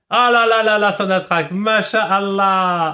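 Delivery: loud, high marvelling, ending drawn out; hammed-up wonder; amazed exclamation. Real, not acted. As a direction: burst out in showy amazement, then stretch the praise. Marvels that the site works.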